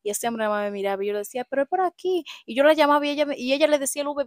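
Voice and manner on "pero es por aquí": 1 insisting. Retold or imitated. Retold insisting.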